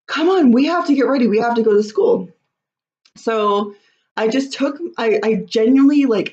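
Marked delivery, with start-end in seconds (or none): 0.1-2.3 frustrated hurry-up. Retold or imitated. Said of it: "getting frustrated and being like".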